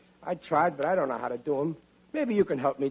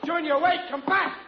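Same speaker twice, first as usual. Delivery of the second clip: calling after; 11 semitones higher than usual. Acted. Calling after Junior leaving.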